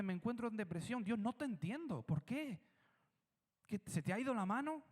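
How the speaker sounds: a lightly voiced frustrated believer pleading; complaining to God. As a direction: argue with God, hurt and baffled.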